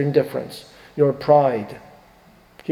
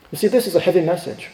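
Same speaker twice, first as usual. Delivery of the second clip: chuckling; faster than usual. Real, not acted. Chuckling at own heavy point.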